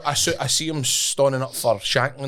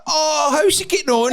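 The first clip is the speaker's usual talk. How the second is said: much higher, louder fake-friendly question; mock cheery voice; 4 dB louder than usual. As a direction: bluff it cheerfully. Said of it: "I'm like".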